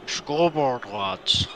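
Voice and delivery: put-on a lightly done Irish accent on request; quick mock Irish voice, last word breathed. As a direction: friend does Irish when asked. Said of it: "Green Man, do Irish for me".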